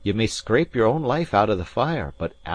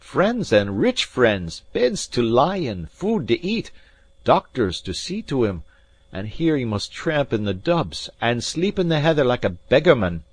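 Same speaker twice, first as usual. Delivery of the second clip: loud, high pleading lament; impassioned cry; 6 semitones higher, 6 dB louder than usual. A narrator's reading. Alan spinning a sob story for the maid, loud. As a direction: pour out the hard-luck story. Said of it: "cried Alan".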